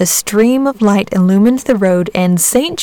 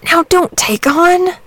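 slow, gentle comforting; calm the crying boy down; soothing saint; 9 semitones higher, slower than usual. A narrator's reading. Saint George comforting the boy, gentle. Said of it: "said Saint George".

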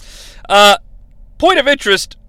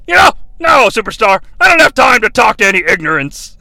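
mock Heenan; 3 semitones higher, faster than usual. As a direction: brush him off snootily. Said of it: "Heenan dismissing Graham".

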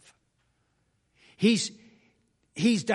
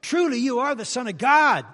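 loud, high proclamation of awe; awed declaration; 6 semitones higher, 11 dB louder than usual. Retold or imitated. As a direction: proclaim it in amazement. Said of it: "the same response as Peter".

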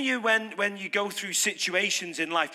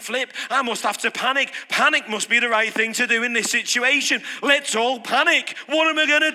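hammed-up panicky inner voice, louder; mock panic; 3 semitones higher, 4 dB louder than usual. Preacher mimicking a worker who thinks panic is right, mock panic. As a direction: play the fretting worker talking himself into panic.

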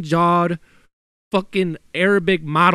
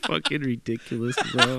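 laughing; 3 semitones lower, 3 dB quieter than usual. Real, not acted. Laughing reply.

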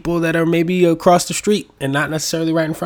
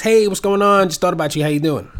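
higher, louder friendly hello; cheery text greeting; 6 semitones higher, 5 dB louder than usual. Retold or imitated. Texting a friend he hasn't spoken to, a higher, louder cheery greeting. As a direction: sound thrilled to reconnect.

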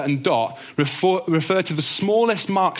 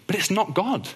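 softened, slightly lifted pitch; gentle; 5 semitones higher, 3 dB quieter than usual. Real, not acted. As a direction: say it gently, to cushion a hard truth. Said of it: "I say this really gently".

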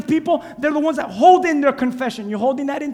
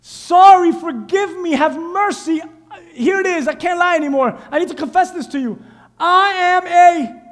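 pleading confession; 4 semitones higher, 3 dB louder than usual. Acted. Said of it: "tax collector, he's like".

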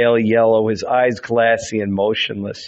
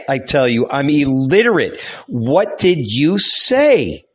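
defiant pleading man. Acted. Young carpenter answering the voice above, defiant and pleading. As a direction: argue with God, defiant then pleading. Character argues with the voice.

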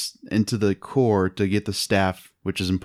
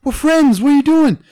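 mock Mark Wahlberg; 8 dB louder than usual. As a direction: ham up a dopey hero pleading. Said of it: "Mark Wahlberg's like".

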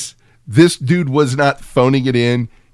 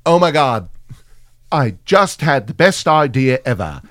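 bad British accent. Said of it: "I'm doing a better British accent than him".

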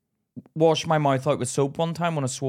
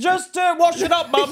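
put-on sweet child voice; 5 dB louder, slower than usual. Child sucking up to mum.

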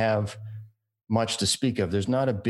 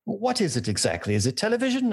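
imitating puzzled friend; 11 semitones higher than usual. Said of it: "shake his head at me and go".

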